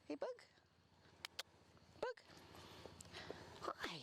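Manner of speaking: high, bright call to a dog. Real, not acted. Trainer calling Bug to get her attention, high. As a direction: chirp her name.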